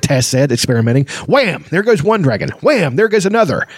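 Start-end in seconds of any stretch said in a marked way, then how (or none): 1.3-3.7 gleeful play. Acted. Taz pretending to fire.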